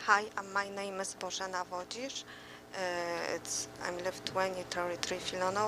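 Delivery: soft, barely carrying voice; speaking too softly for the room; too quiet. Real, not acted. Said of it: "Can you speak up".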